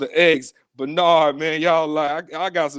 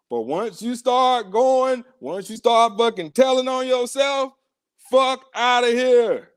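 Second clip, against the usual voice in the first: higher and slow, heated; slow, rising warning; heated slow scold; 5 semitones higher than usual. Real, not acted. Host scolds caller.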